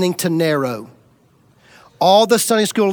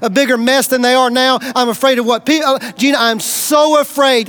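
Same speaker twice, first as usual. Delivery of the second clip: voiced fear; 2 semitones higher than usual. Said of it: "my feelings were like".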